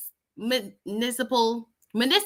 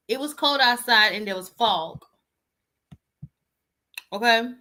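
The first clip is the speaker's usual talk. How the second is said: smacking on cough drop. Real, not acted. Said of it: "Excuse my smacking".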